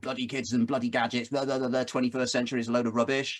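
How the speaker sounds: grumpy inner voice. Retold or imitated. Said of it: "Internal dialogue".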